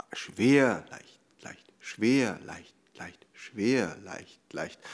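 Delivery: schwer laut und fallend, leicht, leicht fast geflüstert; schwer laut, leicht leise. Shown as a demonstration. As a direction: Takt vorzählen: schwer kräftig, leicht gehaucht. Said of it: "So lässt sich's nicht so leicht laufen". (Schwer laut, leicht geflüstert)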